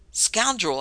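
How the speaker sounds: angry roar of scoundrel. A narrator's reading. Sir Robert roaring at his host in outrage. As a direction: hurl the insult in outrage. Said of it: "I roared, leaping up".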